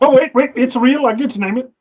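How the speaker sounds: put-on high, eager English accent; an English scientist suddenly claiming the find; mock English accent. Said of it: "do your English accent on that one".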